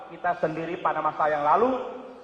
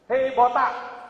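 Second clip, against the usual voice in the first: mock yell; 4 semitones higher, 4 dB louder, much slower than usual. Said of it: "kemudian orang teriak".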